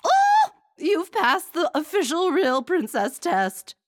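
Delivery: very high, slow, loud relieved squeal; queen squealing with joy, drawn out; gleeful squeal. Acted. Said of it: "squealed with relief and glee".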